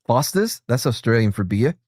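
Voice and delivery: lightly hammed-up Australian accent. Showing Aussies how an accent is done, mock Australian accent. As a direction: put on a playful Aussie accent. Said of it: "how to do a proper fucking accent".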